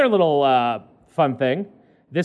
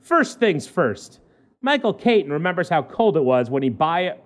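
measured newspaper read-aloud; lightly performed human-interest news read; news story read. Acted.

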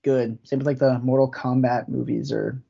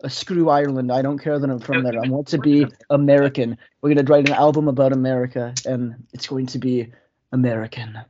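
Impression of a singer. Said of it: "So he talks".

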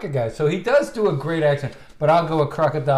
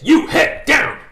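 high, loud mock Scottish order; Scottish accent; 9 semitones higher, 6 dB louder, slower than usual. Quoting the axe murderer comedy to his co-host, loud Scottish accent. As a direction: bellow it in a put-on Scottish accent. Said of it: "Scottish accent".

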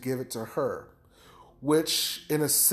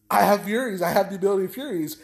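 excited; 4 semitones higher, 3 dB louder, faster than usual. Retold or imitated. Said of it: "he's actually excited by this".

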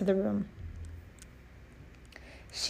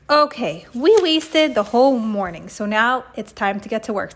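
stern teacher; 4 dB louder than usual. Acted. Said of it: "said Mister Cooper".

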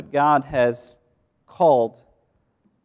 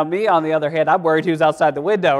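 normal talking voice

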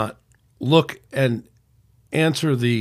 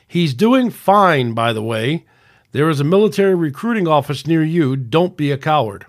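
mock yelling in caps. Reading out the commenter's all-caps post, mock yelling. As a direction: lean on each word like the all-caps post. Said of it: "as if he was yelling at me".

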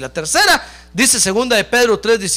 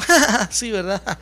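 put-on scoffing laugh into words; mock laughing. Preacher imitates churchgoer laughing at the sermon, mock laughing. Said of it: "se rió y dijo".

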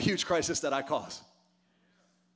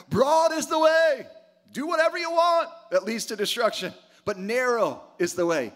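preaching shout; 4 semitones higher, 5 dB louder than usual. Real, not acted. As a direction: thunder it out to the crowd. Preacher proclaims broad way.

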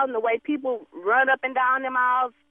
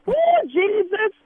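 drawn-out exasperated cry; 5 semitones higher, 4 dB louder, much slower than usual. Acted.

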